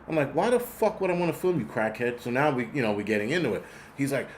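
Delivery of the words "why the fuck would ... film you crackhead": mildly indignant retold comeback, pitched up at the start; high-starting, mock-exasperated question; annoyed retort. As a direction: retell an irritated challenge without raising the volume. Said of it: "'cause I was annoyed".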